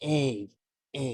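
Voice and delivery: "A" repeated alone as a long glide from eh to ee; open-mouthed vowel demonstration. Shown as a demonstration. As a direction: open wide and model "A" for a learner. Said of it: "Can you try to open your mouth".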